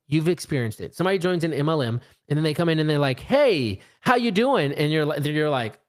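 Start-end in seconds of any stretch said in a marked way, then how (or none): 3.2-4.7 higher-pitched, over-friendly mock greeting; overeager recruiter. New MLM recruit greets an old contact, mock overeager. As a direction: imitate a pushy recruiter's big hello.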